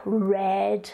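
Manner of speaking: "red" with an English R; English-style R opening "red". Shown as a demonstration. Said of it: "in English is pronounced R".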